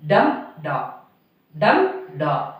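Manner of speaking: measured "dum da" beat, each pair falling from a stressed "dum"; trochee beat. Shown as a demonstration. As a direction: stress DUM, let "da" drop: DUM da. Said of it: "Stressed syllable followed by unstressed syllable".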